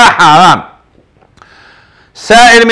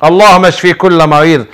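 earnest supplication for the sick, rising in fervor; fervent prayer. Real, not acted. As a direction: pray aloud for every sick person, pleading. (دعاء بخشوع وتضرع)

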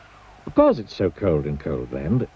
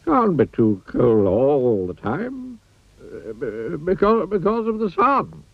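snorting wizard; 7 semitones higher, slower than usual. Acted. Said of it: "snorted the wizard".

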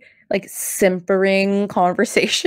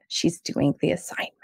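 quoted line; 7 dB quieter than usual. Retold or imitated. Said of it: "the one who has the line".

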